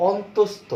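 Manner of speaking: অন্তস্থ as "ontostho", carefully sounded; deliberate, evenly weighted অন্তস্থ; full letter-name pronunciation. Shown as a demonstration. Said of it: "এরকম উচ্চারণ আমরা পাই না".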